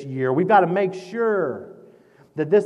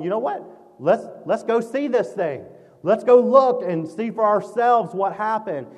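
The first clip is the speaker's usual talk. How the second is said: higher, louder, eager shepherds deciding to go; 4 semitones higher, 4 dB louder than usual. Acted. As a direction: voice the shepherds rushing off with excitement. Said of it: "And then they thought".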